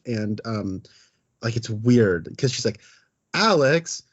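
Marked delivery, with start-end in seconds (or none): 3.3-4.0 higher, melodramatic mock scolding; overcooked acting. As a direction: imitate a hammy movie mom. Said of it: "overcooked performance".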